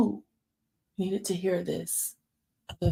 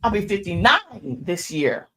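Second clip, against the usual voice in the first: loud excited scream; screaming at her friend; 3 semitones higher, 11 dB louder, slower than usual. Retold or imitated. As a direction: shout it out in delight. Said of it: "Then I start screaming".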